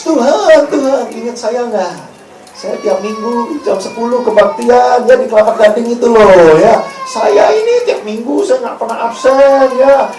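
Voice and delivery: high, drawn-out whiny plea; mock pleading churchgoer. A churchgoer pleading with Jesus at the end times, mock whiny voice. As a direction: beg to be remembered, overdoing it.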